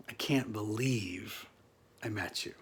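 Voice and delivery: whispered in disbelief; awed whisper. Real, not acted. Awed at meeting Mister Acting.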